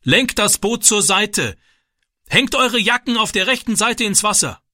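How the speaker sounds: shouted orders. A narrator's reading. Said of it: "brüllte der Mann".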